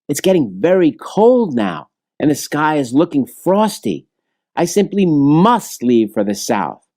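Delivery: a small bird fretting about the cold; a hint of a worried little bird; bluebird. Bluebird refuses again.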